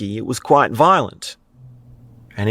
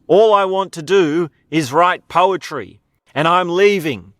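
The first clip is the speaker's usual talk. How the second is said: raised, mildly theatrical farewell speech; declaring clown; 5 semitones higher than usual. Retold or imitated. Clown announcing he's leaving to be a poet, mild defiant declaration. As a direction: lightly act out a defiant final announcement.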